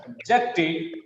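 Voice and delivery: "Objected" as ob-JECT-ed; second-syllable stress. Shown as a demonstration. Teacher showing the verb, stress on JECT in "Objected". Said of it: "Second syllable is stress".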